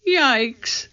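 high little yelp of dismay; high-pitched, lightly alarmed exclamation; mild alarm. A narrator's reading. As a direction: let out a small high yikes. Annie alarmed as dark falls.

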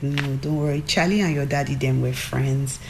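lightly voiced dismissive mom; imitating mom. Daughter quotes mom brushing off her song question, lightly imitating her. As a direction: reassure as mom would, only lightly put on. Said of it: "that's how she would say it".

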